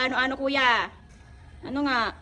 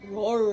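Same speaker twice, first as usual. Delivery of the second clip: roar; 4 semitones lower than usual. Shown as a demonstration. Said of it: "Ano sabi ng tiger?".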